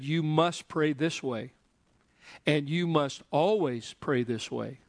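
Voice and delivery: slow, stressing must and always; emphatic command. Shown as a demonstration. Jesus telling disciples how to pray, slow and emphatic. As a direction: lay down the rule slowly. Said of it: "that what that means".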